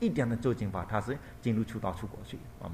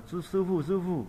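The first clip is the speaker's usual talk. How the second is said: alarmed mother; 8 semitones higher, 3 dB louder than usual. Acted. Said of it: "他说".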